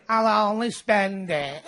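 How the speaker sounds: gloomy Mancunian moaning about winning the lottery; miserable grumble. Retold or imitated. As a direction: squeeze every joy out of it.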